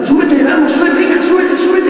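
high, loud urgent calls to climb aboard; urgent calling. Acted. Man in a plastic boat urging the swimmer aboard, high and loud. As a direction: shout it, hurrying someone into the boat.

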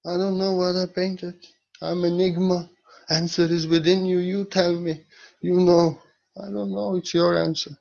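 high-pitched put-on artist voice throughout; Salvador Dali. Painter answering his questioners, airily evasive. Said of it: "Salvador Dali said".

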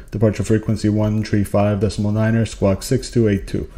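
pilot readback. Shown as a demonstration. Pilot reading back the clearance to the controller, brisk radio readback. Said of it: "So you'll say something like".

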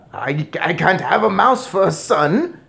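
loud, high, stammering protest; horrified shriek. A narrator's reading. Father rejects mouse son, shrieking. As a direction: protest in rising panic. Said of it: "shrieked Mister Jenkins".

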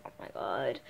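low, soft put-on voice for her friend; mock friend voice. Imitating Angel's reply to the apology, low and soft. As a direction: drop the voice right down and mumble it. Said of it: "she doesn't talk like that, but, you know, I'm just talking like that".

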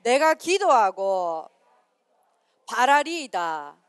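slow, loud line for the group to echo; call-and-repeat recitation. Shown as a demonstration. Pastor feeding the line for youth to repeat, slow and loud. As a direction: spell out each phrase so they can repeat. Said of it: "따라합니다".

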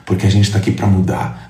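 ordinary talk

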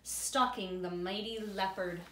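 put-on reading aloud to children; story narration. A narrator's reading. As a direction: narrate the adventure with relish.

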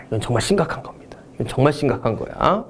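속삭이듯 심각하게 경고; mock serious whisper. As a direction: whisper it like a grave secret. Teacher warns about missing easy question. (심각한 척 속삭이는 목소리)

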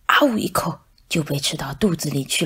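hushed gobbling whisper to frighten little ones; spooky whisper. Acted. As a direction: whisper it like a scary secret. Teacher scares the mice. (老师吓唬小老鼠，轻声耳语)

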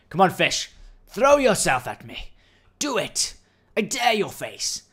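high, drawn-out mock challenge; taunting dare. Daring the fish to attack.

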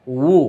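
উ pushed out with pressure, lips rounded; pressed waw sound. Shown as a demonstration. Teacher showing students the waw vowel, pressed firmly. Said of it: "চাপ দিয়ে".

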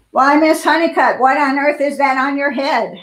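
a shocked snob calling out across the street; snooty busybody. Acted. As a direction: scold her like a nosy neighbour who is appalled. Mrs McSnoot scolds Miss Honeycutt.

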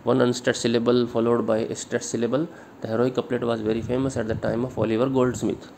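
measured classroom dictation, word by word; teacher dictating notes to copy, slowly; slow dictation reading. Acted. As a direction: read each English word out slowly so students can write it down.

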